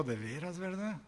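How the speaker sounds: a soft, thoughtful murmur after thinking it over; pondering, hushed. Retold or imitated. Fish seller quietly pondering the customer's point. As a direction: let it drop quiet as if mulling it. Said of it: "lo pensó un rato y dijo".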